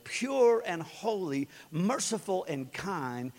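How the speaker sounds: measured, reverent reading of scripture. Acted. Pastor reading scripture to his church, reverent reading. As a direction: read the verses slowly and reverently. Reads scripture aloud to congregation.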